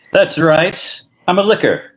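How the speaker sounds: gruff detective line; deadpan hardboiled admission; noir detective. Acted. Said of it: "as a film noir".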